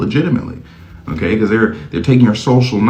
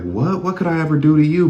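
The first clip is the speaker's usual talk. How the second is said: 1 mock surprise; 7 semitones higher than usual. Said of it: "They're like".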